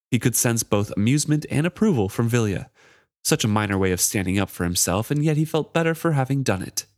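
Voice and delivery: reads the novel aloud, guards lightly voiced; story reading. A narrator's reading. Reading the chapter aloud to her co-host, lightly voiced. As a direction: read the passage to the book club with light character voices.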